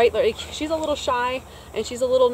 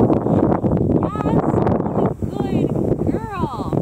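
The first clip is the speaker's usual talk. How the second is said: higher, louder, stretched-out praise; excited praise; 9 semitones higher, 7 dB louder, much slower than usual. Real, not acted. Trainer praising Lucy as she comes in, excited and stretched out. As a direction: cheer her on as she arrives. Praising dog after recall.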